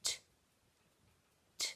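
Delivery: isolated t, tongue tip tapping the top teeth; crisp t sound. Shown as a demonstration. Teacher modelling the t sound for children, crisp and isolated. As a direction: tap t on its own, tongue behind the top teeth. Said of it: "To make the sound properly".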